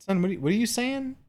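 put-on high-pitched parent-to-toddler question; retold puzzled parental query; imitating a questioning parent.

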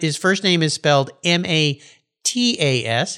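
letter by letter, M A T A S; spelling it out. Shown as a demonstration. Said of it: "So I'm speaking Lithuanian today".

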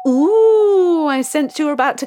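mystic fortune teller. Acted. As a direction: play the mysterious seer. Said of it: "Psychic Sally".

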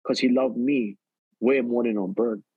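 son reassuring his mom with faith; calm faith. Retold or imitated. Calm faith reply to mother.

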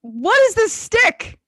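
high, slow put-on British; baffled mock-British questioning; British accent. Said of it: "The whole thing in British".

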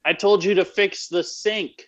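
high, raspy Chicago nag; Amy's raspy Chicago voice. Acted. Wife scolding husband over chores, raspy Chicago voice. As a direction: scold in an exaggerated Chicago accent. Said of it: "my accent for, um, Amy is really Chicago".

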